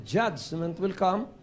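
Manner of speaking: "Judgment will come" drawn out slowly, each word weighed; slow ominous quote. Retold or imitated. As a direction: warn it slowly like a prophecy. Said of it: "when he said". (mabagal at nagbababala: "Judgment will come")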